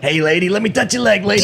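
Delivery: lightly voiced creepy come-on; a hint of a creepy mafia guy; sexy voice. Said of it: "What's your sexy voice?".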